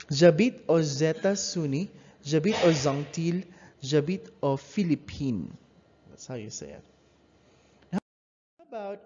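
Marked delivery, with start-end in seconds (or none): 0.1-5.6 aux États-Unis and aux Antilles with z linking, Philippines without; liaison demo. Shown as a demonstration. Teacher runs through the three liaison examples. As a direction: link aux with z before vowels only. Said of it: "as if it's an S".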